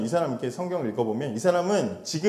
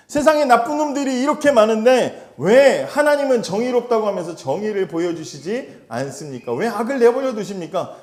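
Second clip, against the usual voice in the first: much higher, louder indignant outburst; angry demand; 8 semitones higher, 7 dB louder than usual. Acted. Habakkuk demanding justice from God, higher and louder outburst. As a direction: hurl the question at God. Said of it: "그렇게 지금 따지고 있는 거예요".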